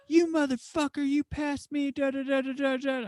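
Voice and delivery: high-pitched mock tirade; retold angry rant. Friend ranting at the driver's window, high mock-angry tirade. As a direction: imitate his ranting, way up high, running into da-da-da.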